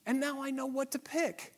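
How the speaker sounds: high, soft, self-satisfied musing; smug inner voice. Retold or imitated. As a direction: pitch it up like a pleased know-it-all. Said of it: "And we think".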